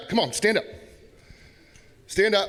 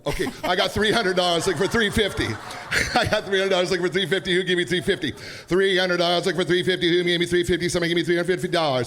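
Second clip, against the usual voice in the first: auctioneer; faster than usual. Acted. Replays his auction chant.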